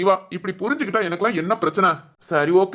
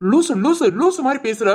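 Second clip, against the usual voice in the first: scolding; 2 semitones higher than usual. Acted. Husband dismissing wife's gloomy talk, exasperated scolding. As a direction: chide her with repeated name-calling. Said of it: "நீங்க என்ன ரொம்ப திட்டுறீங்க".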